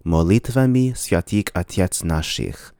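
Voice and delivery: Russian molitvami sviatik otets nashich, reduced O's as "ah"; Russian pronunciation. Shown as a demonstration. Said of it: "a Russian will probably pronounce this formula".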